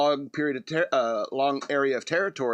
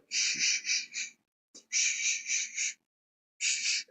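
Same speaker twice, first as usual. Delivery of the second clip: whispered shushing, soft and calming; soothing shush; 5 dB quieter, much slower than usual. Retold or imitated. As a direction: hush them gently like a comforting robot. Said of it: "it could go".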